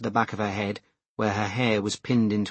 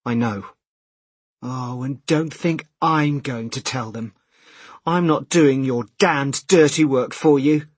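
choked with tears; 3 semitones higher, 4 dB louder than usual. Acted. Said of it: "His sister's voice was choked by tears".

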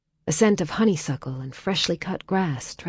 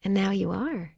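smiling; 4 semitones higher than usual. A narrator's reading. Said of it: "a smile in her voice".

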